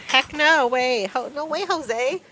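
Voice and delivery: high, teasing voice to animals; sing-song scolding of the goats; playful pet talk. Acted.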